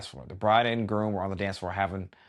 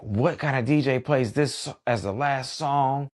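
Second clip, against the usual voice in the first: mock whiny guest; 5 semitones higher, slower than usual. Guest complaining from her corner.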